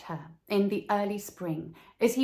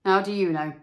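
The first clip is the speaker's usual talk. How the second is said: stern master; 6 dB louder, faster than usual. Acted. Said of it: "said the mathematical master".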